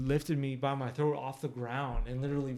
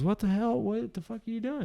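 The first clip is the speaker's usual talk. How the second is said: angry dad; 9 semitones higher than usual. Retold or imitated. Angry father voiced in story.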